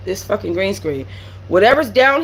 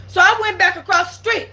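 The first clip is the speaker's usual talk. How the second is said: excited shout; 9 semitones higher than usual. Real, not acted. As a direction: shout it out between laughs. Climax of story, shouting, laughing.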